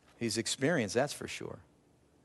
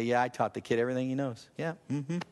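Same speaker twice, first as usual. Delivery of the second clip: smug boasting; faster than usual. Retold or imitated. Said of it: "I hear the experience say".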